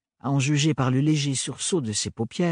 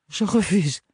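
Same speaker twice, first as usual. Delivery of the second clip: put-on firm young woman's refusal; Ophélie, firm; 8 semitones higher, 3 dB louder than usual. A narrator's reading. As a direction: say it firmly, standing her ground. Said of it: "répéta-t-elle d'une voix plus maîtrisée". (refus ferme)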